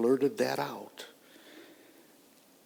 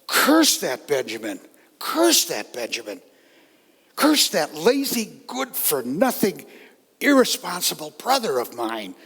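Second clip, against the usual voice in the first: bitter cursing; 4 dB louder than usual. Acted. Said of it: "Soon I was sobbing and saying to myself".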